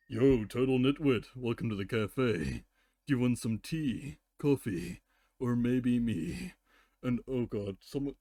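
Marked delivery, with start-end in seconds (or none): 0.1-6.5 cheesy flirt with a slow last line; a mock cafe host's pickup line; flirty cafe greeting. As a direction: pitch tea, coffee, then yourself. Repeats joke cafe ad.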